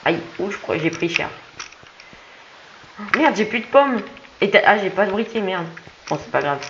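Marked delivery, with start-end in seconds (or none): 3.2-5.7 frustrated cursing. Real, not acted. Frustrated, out of supplies.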